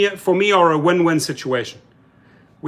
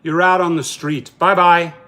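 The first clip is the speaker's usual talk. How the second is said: mock dismissive boss. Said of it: "no notice".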